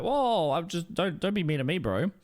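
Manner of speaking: high, startled whoa then a pleading voice; hurt Strasky. Retold or imitated. Strasky answering Ackers's insult, high and hurt. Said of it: "And Strasky was like".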